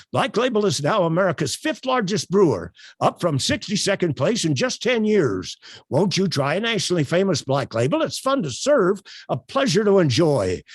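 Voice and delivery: projected, inflected announcer read with lively pitch swings; radio commercial. Shown as a demonstration. Ex-announcer giving the workshop a sample, radio commercial read. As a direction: sell it like an old radio beer ad. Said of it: "that's the way I would talk if I were on the radio giving a radio commercial".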